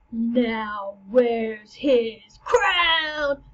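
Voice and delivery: very slow, loud cry; dramatic reveal. Acted. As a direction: land the revelation hard.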